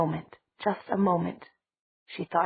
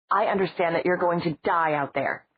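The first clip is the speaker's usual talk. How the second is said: raised, urgent warning; shouted; 4 dB louder than usual. Acted. Matt shouting at Stefan about dying out there, raised and urgent. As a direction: call it out hard at him. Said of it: "Matt shouted".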